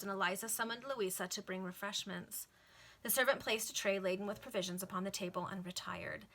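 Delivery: measured, lilting novel reading; formal audiobook-style narration; story narration. A narrator's reading. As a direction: read it out like an old serial. Reads a novel aloud.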